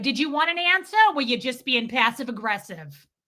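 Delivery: put-on angry, cutting, pointed tone. Retelling what the speaker said to a man, retelling a mad retort. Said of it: "I was so mad".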